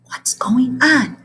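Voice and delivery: slow, unvoiced whisper. A narrator's reading. The librarian whispering to the frightened teacher. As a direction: whisper it slowly. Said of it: "lowered her voice".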